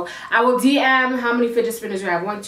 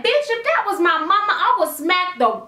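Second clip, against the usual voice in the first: Caribbean slip; 5 semitones higher than usual. Retold or imitated. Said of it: "the Caribbean in me saying Tuesday".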